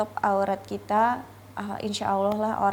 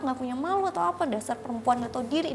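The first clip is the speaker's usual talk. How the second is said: fast, higher, lightly hammed-up insults; mock furious boyfriend; 5 semitones higher, faster than usual. Boyfriend yelling at her over calling her mother, fast mock anger. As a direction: spit the insults out fast like he did.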